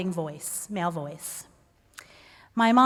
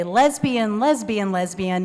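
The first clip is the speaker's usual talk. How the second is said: upbeat and positive. Retold or imitated. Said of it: "in the most upbeat and positive way I can".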